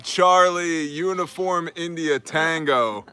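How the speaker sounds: phonetic alphabet, loud and half-laughing like a radio operator; mock radio spelling. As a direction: spell it out radio-style, each word punched. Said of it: "How is that phonetically?".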